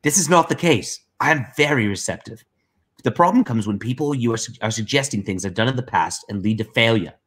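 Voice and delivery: lightly put-on voice reading a message; Liam. Co-host reading Liam's message aloud, lightly mimicked voice. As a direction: lightly imitate the writer, voice a touch lifted. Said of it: "I'll try to read it in, uh, in, in Liam voice".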